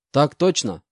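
crisp, loud "yes sir"; smart military reply. Acted. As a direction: snap it off like a keen recruit. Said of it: "браво ответил я".

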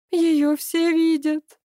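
high, slow tearful outburst; a touch of weeping; sobbing. A narrator's reading. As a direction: break into mild sobs. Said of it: "зарыдала Вера".

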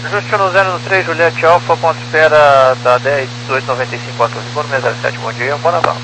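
tinny radio transmission; crackly military radio. Real, not acted. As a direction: voice through a cockpit radio. Pilot over ATC radio.

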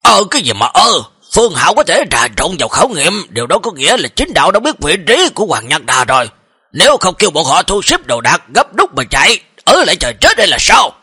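mildly heated exasperation; exasperated. Acted. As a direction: explain impatiently, as if let down by a dim underling. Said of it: "giọng điệu chỉ tiếc rèn sắt không thành thép".

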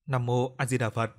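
slow, gentle monk's chant; a mild hint of a kind monk. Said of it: "Giọng nói hiền từ phát ra". (giọng hiền từ, niệm chậm)

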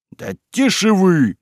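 high, slow shout to silence them. A narrator's reading. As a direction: cut the quarrel off. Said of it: "крикнул Василий".

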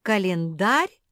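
loud rising question Календарь?; blinking disbelief. A narrator's reading. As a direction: repeat Календарь? in puzzlement. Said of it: "заморгала Куки".

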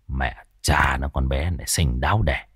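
put-on low, grumbling young man's voice; Tuất muttering. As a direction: mutter it under your breath, rough. (lẩm bẩm giọng trầm)

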